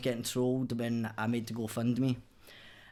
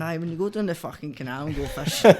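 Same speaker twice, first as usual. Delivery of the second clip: laughing, higher and louder, playing dumb; mock his own naive reply with a laugh; mock clueless answer; 5 semitones higher, 7 dB louder than usual. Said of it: "I'm going".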